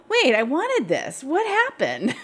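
high-pitched mock weepy protest with a little laugh; retold tearful bewilderment. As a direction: lightly imitate your own baffled crying. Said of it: "and I can't stop crying".

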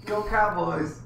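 loud, high sports cheer; loud, high fan chant. Real, not acted. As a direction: cheer on the Cowboys. Cheering for the team.

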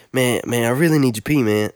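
lightly put-on street accent, words run together; imitation of classmate's accent. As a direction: beg in a loose imitation of his accent. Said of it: "doing my best imitation of his accent".

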